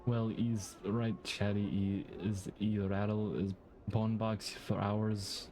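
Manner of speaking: a hint of a Scottish accent on the rat seller; lightly voiced Scottish rat seller. Reading the rat seller's dialogue, light Scottish accent. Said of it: "Why am I giving him a Scottish accent?".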